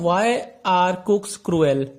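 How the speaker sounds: very slow, deliberate reading of the riddle; slow question read. Shown as a demonstration. Teacher reading the riddle aloud to the class, very slowly.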